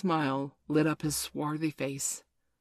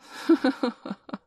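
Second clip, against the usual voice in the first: empty high laugh; hollow laugh; 9 semitones higher, 5 dB louder than usual. A narrator's reading. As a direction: laugh without joy. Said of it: "He laughed, but in a hollow way".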